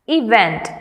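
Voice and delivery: "event" with the weight on VENT; stress on second syllable. Shown as a demonstration. Teacher reading words to students, "event" stressed on VENT. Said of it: "stress on the second syllable".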